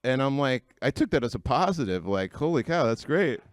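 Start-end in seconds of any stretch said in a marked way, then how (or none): 2.3-3.4 bright mock delight, pitched high; imitating his own hopeful surprise; excited. To the head doctor, mock delighted exclamation.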